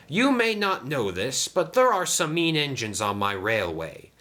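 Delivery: grateful Sam. Acted. Sam praises Diesel before leaving, grateful.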